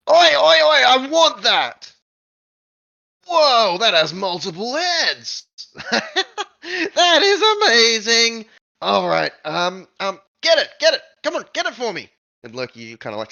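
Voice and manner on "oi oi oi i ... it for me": very high, loud, grabby squeal; tiny creature pointing and demanding the bird, high and loud; greedy little goblin. Acted. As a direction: demand it like a spoiled child.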